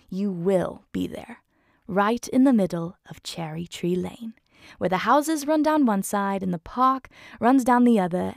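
storybook reading voice; story narration. Acted. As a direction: read it like a bedtime story. Reads book excerpt aloud.

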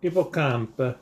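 hippocampe in a light mock Italian accent; a hint of Italian on hippocampe. Dad reading toy box labels, light mock Italian accent. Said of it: "I said that with an Italian accent".

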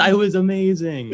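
high-pitched gushing wrap-up; excited retelling. Retold or imitated. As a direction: re-enact an awed fan's rave. Gushing retold to girlfriend.

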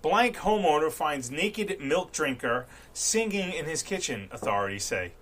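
slow, deliberate headline read. Acted. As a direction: read it like a newscaster. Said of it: "I read an old news article".

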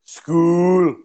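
mock Scottish, drawn-out vowels; comic Scots imitation; attempted Scottish accent. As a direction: echo it in a put-on Scottish accent. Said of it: "I wanna do Scottish".

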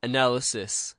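"Analysis" said correctly, stressed on the second syllable; measured, falling "Analysis" as a test answer; test pronunciation. Shown as a demonstration. Co-host proves he can say it, careful "Analysis". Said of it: "a little pronunciation test".

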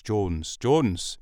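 tentative put-on Welsh accent. Shown as a demonstration. Podcaster hunting for a Welsh accent, faltering Welsh. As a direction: attempt Welsh, then give it up. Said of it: "trigger word to get into Wales".

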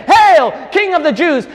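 high, loud earnest acclaim; heartfelt hail to the king; sincere homage. Shown as a demonstration. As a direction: proclaim him king in true devotion. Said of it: "should have said".

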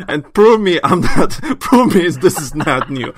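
loud, high laughing taunt. Real, not acted. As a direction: dare them through laughter. Laughing challenge to listeners.

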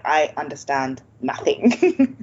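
slow, lightly acted hopeless learner; a hint of a defeated reader, drawn out; mock despair.

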